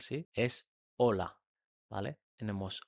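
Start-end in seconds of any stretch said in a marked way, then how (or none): 0.3-1.4 "hola" said as ola with no H sound, slowly; "hola" with a silent H, drawn out as ola. Shown as a demonstration. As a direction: drop the H in "hola" entirely, say ola. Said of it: "que la H no suena en español".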